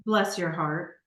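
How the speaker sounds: southern sass. Retold or imitated. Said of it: "what do you usually say to me".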